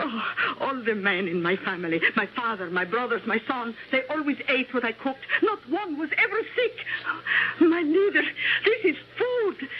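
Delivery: tearful plea. Acted. Cook pleading, tearful.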